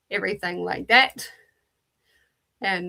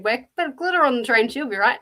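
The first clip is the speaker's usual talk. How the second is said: quick, breezy Kiwi Aussie quip; fast, casual Kiwi Aussie slang; Kiwi Aussie attitude; 4 semitones higher, 3 dB louder, faster than usual. Retold or imitated. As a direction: toss it off like a laid-back Kiwi Aussie. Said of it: "Very typical Kiwi Aussie, uh, attitude".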